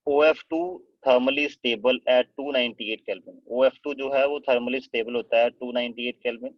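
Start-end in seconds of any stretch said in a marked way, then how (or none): 0.1-3.4 slow, spaced-out dictation of a note. Shown as a demonstration. Teacher dictating a fact to the class, slowly. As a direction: read each word out slowly for students to copy.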